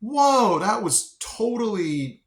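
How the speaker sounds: high, drawn-out mock amazement; retold astonishment. Reacting to the correction, retold astonishment. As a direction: let Whoa leap up, then slow down. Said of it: "And I'm like".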